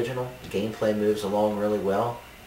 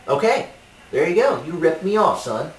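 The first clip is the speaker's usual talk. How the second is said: raging gamer; 8 semitones higher, 6 dB louder than usual. Acted. Triumphant accusation.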